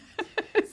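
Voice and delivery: quick high-pitched giggle; a burst of amused laughter; short high laugh. Real, not acted. Laughs after complaint.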